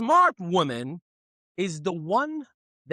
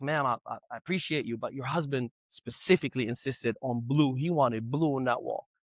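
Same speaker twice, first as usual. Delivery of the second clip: timid painter; 5 semitones lower, 3 dB quieter than usual. Retold or imitated. Timid painter voiced in story.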